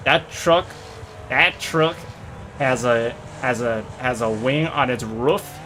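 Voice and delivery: put-on a playful stab at a Southern US accent. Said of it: "how they say it in southern accent".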